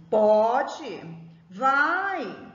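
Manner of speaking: a loud, ironic 'go ahead' that really means no; ironic permission. Retold or imitated. Mother to child asking for the party, mock ironic consent. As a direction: grant it in words while the tone warns against it. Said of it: "Eu posso fazer o uso da ironia".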